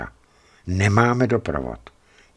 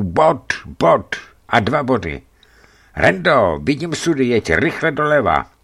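louder, higher, urgent discovery; excited sighting; 7 semitones higher, 5 dB louder than usual. Acted. Driver spots the barrels and urges Rendo left, excited. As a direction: call out the long-awaited find.

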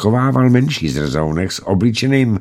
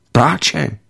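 put-on higher child's voice from the bushes; surprised child's remark, pitched up; child calling out; 6 semitones higher than usual. A narrator's reading. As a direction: point it out in a high kid's voice. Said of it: "ozval se z houští".

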